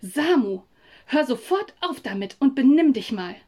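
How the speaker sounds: lauter, scharfer Tadel; wütende Mutter. Acted. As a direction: die Mutter weist Samu streng zurecht. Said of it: "meine Mutter zischte wütend zu mir herüber". (Mutter schimpft lauter mit dem Sohn am Tisch)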